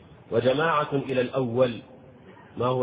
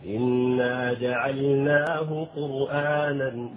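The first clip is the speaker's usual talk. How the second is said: slow tajwid recitation; slow Quranic chant; much slower than usual. Acted. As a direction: recite the verse slowly with tajwid. Quotes Quran verse.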